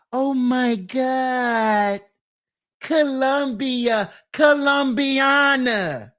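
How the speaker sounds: slow, drawn-out swoon; mock swooning. Mocking young men dreaming of Colombia, slow swoon. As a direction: stretch it out like a lovestruck fool.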